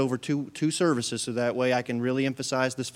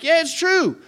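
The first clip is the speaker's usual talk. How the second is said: high, louder teasing retort; teasing dad; 6 dB louder than usual. Retold or imitated. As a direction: rub it in cheerfully. Dad confirming bluntly.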